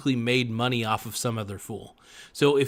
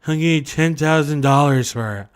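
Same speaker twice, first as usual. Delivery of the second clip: loud, higher mock voice of a gullible buyer; eager buyer; 4 semitones higher, 8 dB louder than usual. Mocking a gullible buyer bidding big, loud and high. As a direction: ham up a dumb rich buyer waving cash. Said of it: "some other artard is like".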